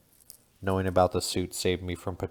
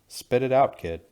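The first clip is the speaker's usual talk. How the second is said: louder, higher impatient shout; yelling; 6 semitones higher, 7 dB louder than usual. A narrator's reading. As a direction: bark at the kid to talk. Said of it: "the other yells".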